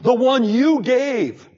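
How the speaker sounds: mock self-pitying Adam; Adam blaming. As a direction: play the excuse-making man. Adam blames the woman.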